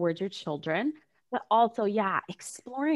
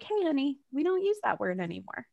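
gentle inner voice; 4 semitones higher, 4 dB quieter than usual. Retold or imitated. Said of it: "if you can gently be like".

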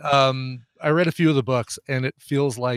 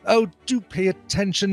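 raised, prim little scold; fussy Q scolding; 5 semitones higher than usual. Acted. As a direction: tut at the agent to listen. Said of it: "That whole do, do pay attention. ... totally him".

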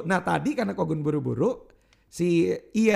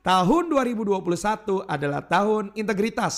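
loud declaration; 4 semitones higher than usual. Real, not acted. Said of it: "dengan suara keras semuanya".

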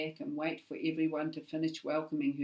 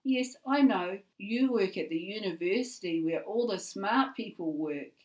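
put-on higher sing-song child's voice; 5 semitones higher, 6 dB louder than usual. A narrator's reading. Daughter reciting her mother's job back to her in sing-song. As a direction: lilt it like reciting a familiar line. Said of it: "Abby said in a sing-song voice".

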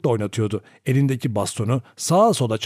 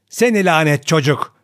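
raised, scolding cry; angry shout; 4 semitones higher, 5 dB louder than usual. A narrator's reading. Grandmother shoving the child back into the corner, shouting. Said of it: "diye bağırdı".

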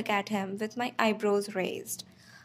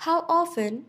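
louder first take; 6 semitones higher, 4 dB louder than usual. A narrator's reading. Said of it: "I asked casually".

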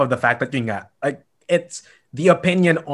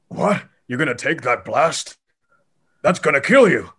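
acted movie exchange. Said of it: "my favorite scene from Infinity War was".

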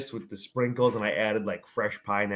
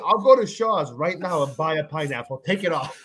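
higher, retold stubborn order; mad dad; 5 semitones higher, 3 dB louder than usual. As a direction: imitate an indignant father giving orders. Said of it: "why is he so mad".

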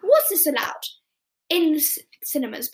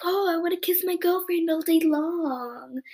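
mocking imitation; 5 semitones higher than usual. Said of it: "mimicking Mike again".

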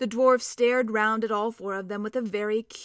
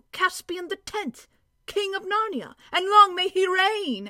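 higher, slow, proud proclamation as the dwarf; gruff gravelly dwarf voice; 9 semitones higher, 6 dB louder than usual. Acted. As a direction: loyal dwarf hailing his king. Dwarf proclaims his king.

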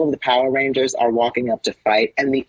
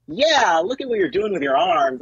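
egging-on coworker, higher on the second yeah; mock party cheerleading; cheering coworker; 6 semitones higher than usual. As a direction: hype up the dancer. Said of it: "your coworkers ... start being like".

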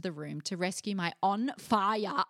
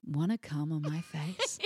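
sultry voice; 5 semitones lower than usual. Retold or imitated. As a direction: purr it like a seductress. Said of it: "in a sultry voice I barely recognized".

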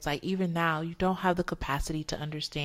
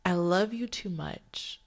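sweet Spirit's voice; slower than usual. Retold or imitated. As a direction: quote the Spirit gently, taking your time. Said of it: "I just heard the Spirit say so sweetly".

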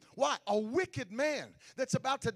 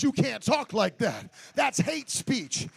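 loud quote; 6 dB louder, slower than usual. Retold or imitated. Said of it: "And now they tell us".

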